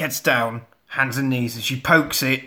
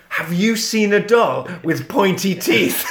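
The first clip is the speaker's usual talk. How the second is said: laughing; 3 semitones higher than usual. Retold or imitated.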